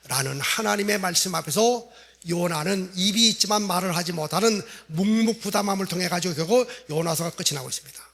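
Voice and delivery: ordinary delivery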